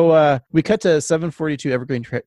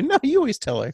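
high, whiny sibling complaint; whiny kid voice; 12 semitones higher than usual. Retold or imitated. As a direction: whine it like a bratty kid. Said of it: "Bart's like".

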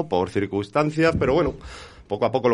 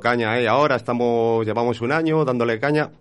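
numb from the dentist. Real, not acted. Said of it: "perdón por la voz, que es que vengo del dentista".

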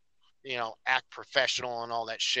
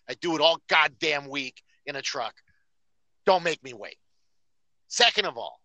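retold angry rant. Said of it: "I blasted him".

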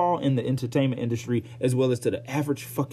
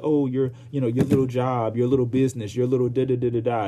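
condescending mock voice; sneering at "your little business". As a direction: belittle them with a sneer. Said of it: "just crack their jokes like".

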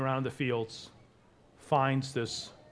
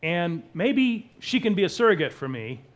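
raised, loud, eager pitching of a plan; desperate Rachel; 5 semitones higher, 7 dB louder than usual. Acted. Wife proposing her maid as surrogate, desperate and eager. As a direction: push the idea urgently. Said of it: "Rachel starts this in her desperation".

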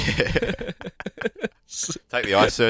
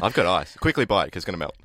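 nervous hopeful door seller; 3 semitones lower, faster than usual. Pretend. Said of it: "It's a door-to-door salesman".

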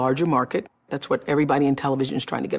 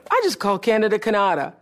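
raised pitch, retold on-air blunder; amused disbelief; 6 semitones higher than usual. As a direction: announce your own slip in mock disbelief. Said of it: "and started cracking up".

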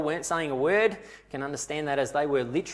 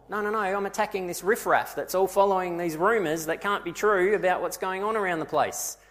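higher-pitched, insistent self-justifying; acted protest; 4 semitones higher than usual. Saul defending his attacks on the riffraff, indignant. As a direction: protest as if you are being misunderstood.

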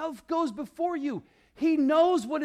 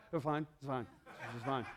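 put-on mumbled, much lower, softer bored teen; sulky teenager; 12 semitones lower, 10 dB quieter, faster than usual. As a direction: shrug it off like a moody teenager. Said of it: "like you turn into a teenager".

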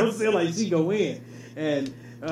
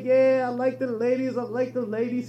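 mock Mexican accent; 3 semitones higher than usual. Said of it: "my accent is great".

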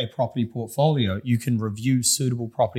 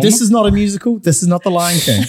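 mock outburst; 8 semitones higher, 8 dB louder than usual. Mock protest against singing.

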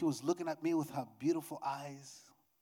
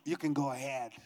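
wife's lowered, falling go-ahead; imitated reluctant permission; 4 semitones lower than usual. Wife allowing husband to leave, reluctant and low. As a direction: say yes in a low voice, meaning no. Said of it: "This is the way she said".

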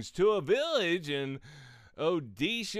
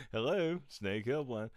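phone greeting second take; 3 semitones lower than usual. Shown as a demonstration. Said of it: "Let me just start over again".

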